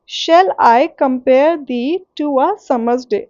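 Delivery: slow, measured line, split as shall I, compare thee, to a, summer's day; broken into feet. Shown as a demonstration. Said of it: "अब इसको ऐसे तोड़ तोड़ के देखो". (shall I से summer's day तक तोड़-तोड़ कर धीरे)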